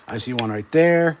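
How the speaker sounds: stuffy, snotty nose from a cold; blocked nose. Real, not acted. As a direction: talk through a blocked nose. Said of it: "Sorry, I'm all snotty".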